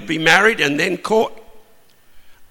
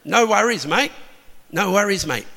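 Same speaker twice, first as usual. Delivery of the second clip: a light Australian-accent "No worries, mate"; easygoing Australian accent, lightly done; Aussie way. Shown as a demonstration. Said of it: "That's what you'd say in Aussie".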